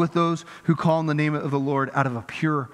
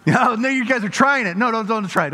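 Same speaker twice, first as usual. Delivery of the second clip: laughing protest; 5 semitones higher, 3 dB louder than usual. Real, not acted. Laughing, stopping congregation from trying.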